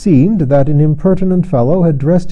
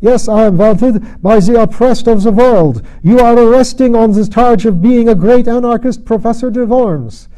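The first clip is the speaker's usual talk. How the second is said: put-on much higher, louder German accent; 9 semitones higher, 5 dB louder than usual. Fake professor crying to the policeman in a high German accent. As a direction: cry out in a shrill German accent. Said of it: "cried in a high German accent".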